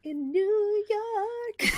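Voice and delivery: put-on high, drawn-out New York accent; mock New York accent. Co-host teasing guest about being from New York, mock New York accent. Playful echo of the place name.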